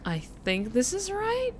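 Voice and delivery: put-on slightly unsure practiced American accent. Streamer telling viewers why it sounds weird, practiced American accent. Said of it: "the American accent sounds a little weird".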